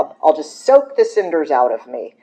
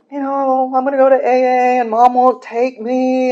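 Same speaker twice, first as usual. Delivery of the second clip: whiny younger sibling; 9 semitones higher than usual. Retold or imitated. Retold call to brother.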